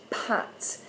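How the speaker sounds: "pat" breathed out, unvoiced and soft; whispered pat. Shown as a demonstration. Teacher repeats the word for parents, in a whisper. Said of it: "we're gonna go".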